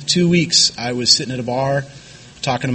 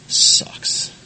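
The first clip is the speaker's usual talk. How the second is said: whispered. Retold or imitated. Bleak inner thought.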